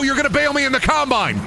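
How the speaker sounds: very high, incredulous yell; mock outrage. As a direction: cry out in hammed-up disbelief. Mock outrage at game enemy.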